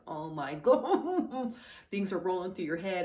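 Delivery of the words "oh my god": slow, drawn-out exasperated oh my God with a laugh; fed-up parent sighing it out; half-laughing mock despair; exasperated groan. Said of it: "you're like".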